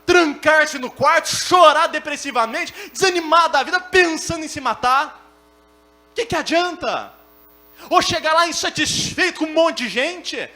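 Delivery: loud, high-pitched preaching at full force; pregação inflamada. Real, not acted. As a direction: build to a shouted, indignant sermon. (pregação exaltada aos brados)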